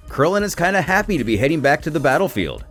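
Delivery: ordinary talk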